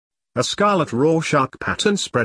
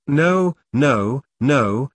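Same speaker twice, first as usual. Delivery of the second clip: screamed; much slower than usual. A narrator's reading. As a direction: shout the nos, half-hearted. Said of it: "screamed Boggart".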